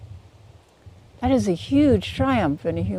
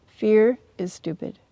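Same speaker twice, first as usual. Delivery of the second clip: pig's verdict; 3 semitones higher than usual. Pretend. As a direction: deliver the punchline flatly decided. Pig's punchline to mouse.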